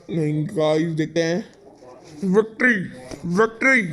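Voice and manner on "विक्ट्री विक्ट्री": higher-pitched triumphant call; victory cheer. Real, not acted. Gamer celebrating a match won, victory cheer. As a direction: call out the win in short bursts.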